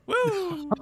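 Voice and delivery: high, excited woo; woo exclaim. Retold or imitated. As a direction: whoop it out loud. Exclaiming at the memory.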